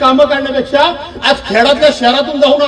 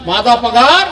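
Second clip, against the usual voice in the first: mock proud boast. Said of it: "एवढ्या कशाने बोलला".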